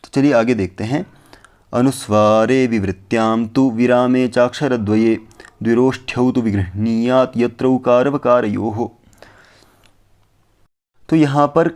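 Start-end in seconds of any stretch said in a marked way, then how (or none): 1.7-8.9 measured śloka chanting; verse recitation. Acted. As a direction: chant the Sanskrit śloka evenly.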